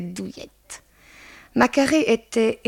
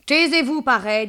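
high, scolding order; sharp rebuke; 5 semitones higher, 5 dB louder than usual. Acted. Madame Dehan silencing Mademoiselle Baba, sharp rebuke. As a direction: cut her off in a high voice.

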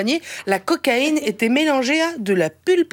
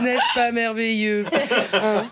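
mock wonder; slower than usual. Columnist marveling at rural cocaine, slow ironic wonder. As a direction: marvel at it with a laugh.

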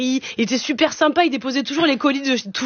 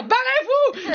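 much higher, hysterical cry; panicked yelling; 11 semitones higher, much slower than usual. Acted. Scared customer driving off the courier, high hysterical yelling. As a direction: shriek it in comic panic. Acted quarrel with courier through door.

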